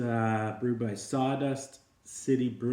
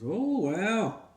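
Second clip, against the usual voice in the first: much higher, breezy greeting; cocky Great Dane; 9 semitones higher than usual. Acted. Great Dane greets the other dogs, in a much higher breezy voice. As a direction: stroll in like you own the place.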